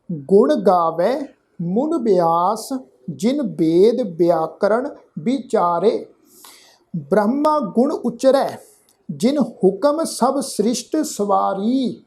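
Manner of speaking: slow, measured verse with drawn-out vowels; scripture recitation. Shown as a demonstration. Teacher reciting Gurbani to the congregation, slow measured recitation. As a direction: recite each phrase slowly, pausing between.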